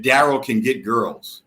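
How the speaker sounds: deliberate repeat. Real, not acted. Asked to say that again, deliberate slow repeat. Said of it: "Wait, wait, say that again?".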